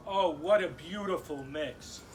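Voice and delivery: mock cooing, as if to a pet; lightly hammed-up pet-owner praise; talking to a dog. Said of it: "talking to me like I'm a dog".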